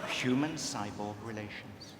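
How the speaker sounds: droid voice try. Acted. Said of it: "C3PO line".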